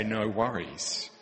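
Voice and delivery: slow, mildly dismissive no worries; a slow, hollow No worries. Retold or imitated. Preacher mimicking an empty platitude, slow and dismissive. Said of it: "just say".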